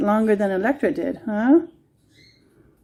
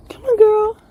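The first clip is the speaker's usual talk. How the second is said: calling a dog; 12 semitones higher, 5 dB louder than usual. Real, not acted.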